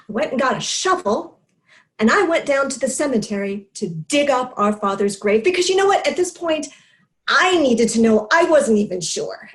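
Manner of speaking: insistent, rising agitation, then driving it home; worked-up confession. Acted. Speaker confessing the cemetery dig to listeners, worked up. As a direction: justify it with mounting urgency.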